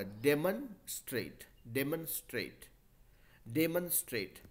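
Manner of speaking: डेमोन्स्ट्रेट said de-mun-strate, with a short unstressed "mun"; careful classroom demo of डेमोन्स्ट्रेट as de-mun-strate; model pronunciation. Shown as a demonstration. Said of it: "मॉन नहीं होके मन होगा".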